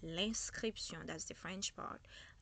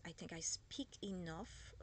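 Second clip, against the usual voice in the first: usual speaking voice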